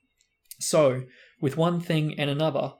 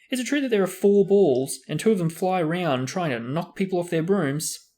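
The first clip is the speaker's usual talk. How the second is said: eager question; 5 semitones higher, 5 dB louder than usual. Acted. Colin eager.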